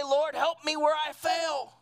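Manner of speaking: called-out plea; fervent prayer. Acted. Preacher voicing a prayer to the Lord, called out. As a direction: cry it out to the Lord.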